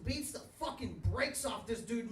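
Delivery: usual speaking voice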